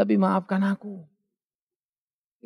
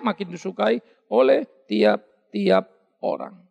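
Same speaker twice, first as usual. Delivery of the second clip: slow stretch; 5 dB louder, slower than usual. Shown as a demonstration. Preacher stretches repeated phrase.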